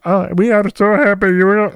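high, gushing fake cheer; hammed-up customer service delight; overexcited call-center agent. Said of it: "pretend they're genuinely excited for you".

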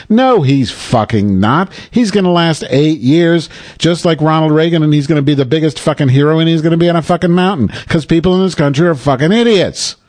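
ranting at Democrats who expect Trump to fail; heated rant. Real, not acted. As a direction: vent your fury at the listeners.

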